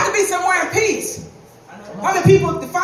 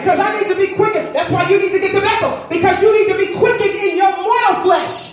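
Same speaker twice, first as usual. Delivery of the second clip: fervent preaching; 3 semitones higher than usual. Real, not acted. Preaches at full force.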